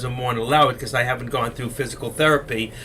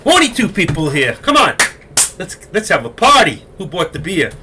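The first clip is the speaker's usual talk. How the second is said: louder, higher, jokey rallying call; rallying the room; 6 semitones higher, 8 dB louder than usual. Real, not acted. Host to online viewers with no questions, loud playful rallying.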